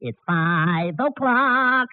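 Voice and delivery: slow, drawn-out time call; slow announcer voice. Shown as a demonstration. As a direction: stretch it out like an announcer. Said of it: "like this".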